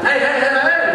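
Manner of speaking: retold intervention; calling to order. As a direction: break up a scuffle from the stage. Comedian breaks up a fight.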